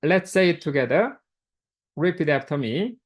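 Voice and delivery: usual speaking voice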